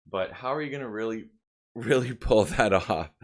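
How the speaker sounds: talking while wrestling a dog, half laughing; strained words mid-struggle with a puppy; holding down a pet. Real, not acted. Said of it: "I'm wrestling with my dog right now".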